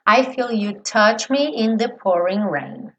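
"I feel you touch me in the pouring rain" slowly, touch ending in tch; slow lyric. Shown as a demonstration. Teacher models the next lyric.

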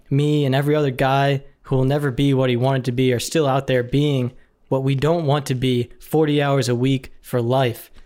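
steady, emphatic defiant speech; monologue recitation. Acted. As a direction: deliver a loser's proud rant, understated.

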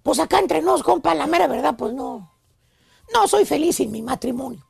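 sad confession. Retold or imitated. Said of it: "guarda silencio por varios segundos y te dice".

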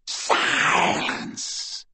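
hissed cold command; cold whisper. Acted. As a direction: hiss it, icy and quiet. Voldemort silences captive.

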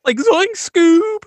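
high, loud, slow stoner voice; Shaggy. Pretend. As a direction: drawl it like a goofy teen. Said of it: "can you do a Shaggy".

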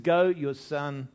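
"Go" loud, then slowing on "your son"; emphatic command. Acted. Preacher voicing Jesus's reply to the nobleman, emphatic. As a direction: land hard on "Go" and draw out the rest. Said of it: "There's two emphatic".

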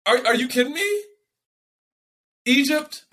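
incredulous, breaking into a laugh; real outrage turning to laughter; laughing disbelief. Real, not acted.

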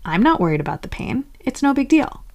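quick denial lifting into high reassurance; dismissive denial. Acted. Squashing down worry about pain, dismissive. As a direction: wave it away with mock lightness. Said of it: "Squashing it down would sound like".

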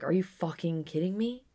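reliving a furious reply to a stranger; retold angry outburst. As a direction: let the outrage build as you tell it. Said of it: "I was like".

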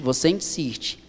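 whispered and slow, repeating "você insiste"; a slow urgent whisper of "você insiste". Shown as a demonstration. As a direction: breathe "você insiste" with no voice, slowly. Preacher repeats, dropping to whisper.

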